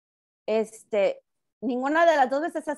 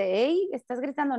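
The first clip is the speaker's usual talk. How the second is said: normal talking voice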